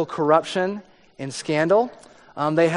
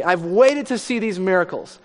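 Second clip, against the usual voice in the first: imitating an angry king shouting at a silent prisoner; more and more angry; 4 semitones higher than usual. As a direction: demand an answer, rising frustration. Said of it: "he got more and more angry".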